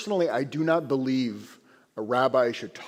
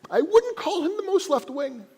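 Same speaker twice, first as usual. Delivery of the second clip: ironic understatement; 3 dB louder than usual. Real, not acted.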